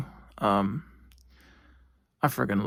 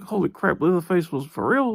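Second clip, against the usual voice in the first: lightly raised imagined gasp of disbelief; mock amazement; 4 semitones higher than usual. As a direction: play the viewer's half-hearted surprise. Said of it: "you'd think".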